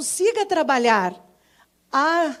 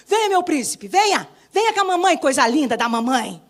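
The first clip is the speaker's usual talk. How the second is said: mother to son; 5 dB louder than usual. Retold or imitated. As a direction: call the little prince over. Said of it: "Como que a mamãe fala com os meninos?". (mãe chamando o filho, um pouco mais alta)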